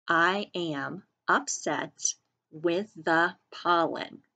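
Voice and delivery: each word slow and even for copying; slow dictation. Shown as a demonstration. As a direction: model it slowly for the class. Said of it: "Say that with me".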